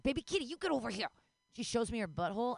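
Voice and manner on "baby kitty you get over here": quick, higher pet-owner order; lightly mock-stern call to a cat; mock demanding. Owner calling her ignoring kitten over, mock demanding. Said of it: "And I'm like".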